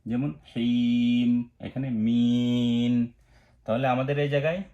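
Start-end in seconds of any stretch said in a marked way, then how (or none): 0.1-3.1 হিম and মিন with the ই stretched long, slowly; three alif lengthening. Shown as a demonstration. Teacher shows the long three-alif stretch. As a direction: draw out the ই in মিন. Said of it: "তিন আলিফ টানতে".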